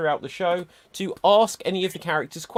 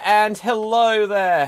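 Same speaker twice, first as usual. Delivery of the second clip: femme fatale; 7 semitones higher, 9 dB louder, slower than usual. Acted. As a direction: draw out the hello like a seductive vamp. Sultry greeting opening the show.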